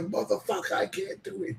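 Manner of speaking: very high, strained frustrated squeak; frustrated squeal. Retold or imitated. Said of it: "and I'm like".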